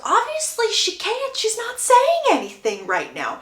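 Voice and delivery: slow, drawn-out acted retort starting high; exasperated retort. Lady Danbury retorts that Hyacinth is speechless, exasperated. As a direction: stretch it out as if stating the obvious.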